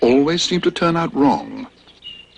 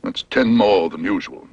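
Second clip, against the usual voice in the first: dentist voice; 2 semitones lower than usual. Acted. Dentist speaking.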